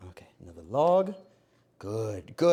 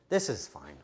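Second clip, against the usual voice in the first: normal talking voice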